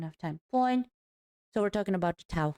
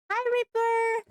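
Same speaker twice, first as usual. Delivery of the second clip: excited greeting; 5 dB louder, slower than usual. Real, not acted. Greeting a chat viewer.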